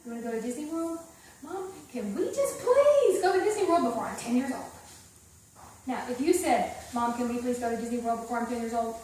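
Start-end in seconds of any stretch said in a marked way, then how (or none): 1.4-4.7 bright, rising plea with a laugh; shaped pleading. Shown as a demonstration. Teacher to student, playful lilting kid plea. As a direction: make the question swoop up and down like a hopeful kid. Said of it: "You see what I'm saying?".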